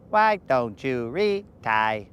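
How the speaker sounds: slow Southern drawl; lazy Southern accent. Pretend. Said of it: "With Southern accent".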